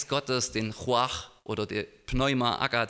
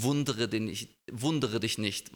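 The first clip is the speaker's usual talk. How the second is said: loving irony. Retold or imitated. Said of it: "höre ich so eine liebevolle Ironie".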